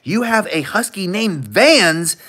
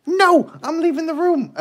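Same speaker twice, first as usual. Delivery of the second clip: laughing dog voice; 11 semitones higher than usual. Retold or imitated.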